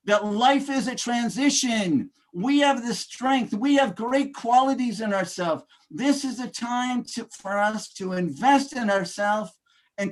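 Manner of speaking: rousing speaker, building to big peaks on key phrases; motivational speech. Acted. Speaker rallying ladies and gentlemen, rousing motivational delivery. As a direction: preach it to the room like a keynote.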